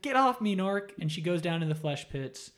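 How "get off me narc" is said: mock yell. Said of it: "she's like".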